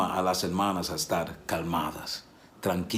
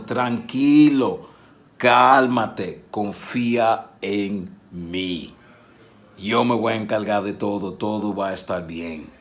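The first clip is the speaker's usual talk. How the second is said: slow reassurance; slower than usual. Retold or imitated. Jonathan to David, slow reassurance. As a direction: reassure a friend slowly.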